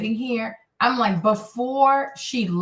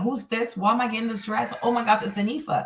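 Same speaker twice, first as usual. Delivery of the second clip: acted, put-on panic in a girl voice; 4 dB quieter than usual. Acting out girls who get the dress unexpectedly: imitating panicked girls. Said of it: "They all panic".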